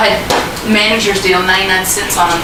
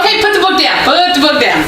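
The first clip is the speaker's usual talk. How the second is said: laughing scold; 4 semitones higher than usual. Real, not acted. Friend scolds laughing reader.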